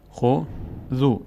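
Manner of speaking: خو، ذو as two separate syllables with a pause. Shown as a demonstration. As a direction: sound out خو, wait, then ذو.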